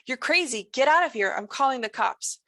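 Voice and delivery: panicked acted yell; alarmed shout. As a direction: yell at him to get out, voice rising. June yells at intruder.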